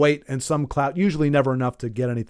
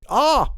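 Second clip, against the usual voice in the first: wince cry; 9 semitones higher than usual. Shown as a demonstration. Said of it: "you physically wince".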